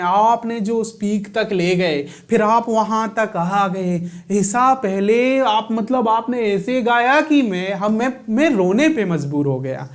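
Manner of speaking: slow, gushing judge praise; imitating a judge. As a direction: mimic a TV judge lightly. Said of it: "तो जजेस बोलते हैं". (हल्का सा जज की नकल)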